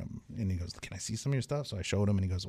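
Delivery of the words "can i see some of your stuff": tattoo artist. Retold or imitated. Tattoo artist voiced in story.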